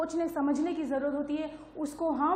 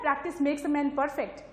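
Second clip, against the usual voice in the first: very slow, each word laid out; slow proverb; much slower than usual. Shown as a demonstration. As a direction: spell the saying out slowly so it sinks in. Teacher stresses proverb slowly. (धीरे-धीरे, हर शब्द पर ज़ोर देकर)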